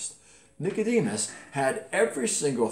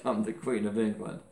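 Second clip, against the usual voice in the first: sarcastic. Retold or imitated. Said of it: "Yeah, right".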